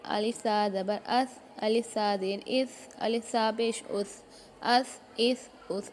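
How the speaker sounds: tongue tip lightly out on the last sound of "अस", no hiss; thin, light th closing "अस", "इस", "उस"; tha without whistling. Shown as a demonstration. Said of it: "सीटी की आवाज़ नहीं निकलनी चाहिए".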